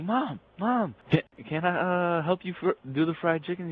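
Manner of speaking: high-pitched imitation of an eager child; excited kid. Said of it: "He's all excited".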